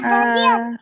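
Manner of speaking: airy ہا, air first then voice; breathy ha. Shown as a demonstration. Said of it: "پہلے ہوا نکلے".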